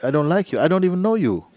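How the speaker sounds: retold protest. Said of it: "the guy said".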